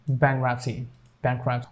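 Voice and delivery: "bankruptcy" with no t sound; silent T. Shown as a demonstration. Teacher models it after the rule, silent T. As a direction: leave the t out of "bankruptcy".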